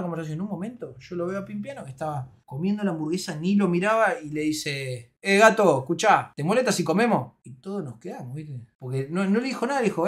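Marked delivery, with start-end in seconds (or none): 5.2-7.3 loud opening, curt brush-off; imitated annoyed rebuff. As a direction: cut in on an unwanted guest. Acting out annoyed friend's rebuff. (imitando un reto molesto)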